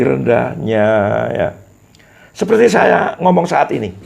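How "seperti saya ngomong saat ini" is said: high, loud demo line with falling tune; rhythm demo. Shown as a demonstration. Teacher showing speech rhythm, high and lively. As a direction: sing the phrase out with a rising then falling melody. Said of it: "Setiap orang harus mempunyai irama".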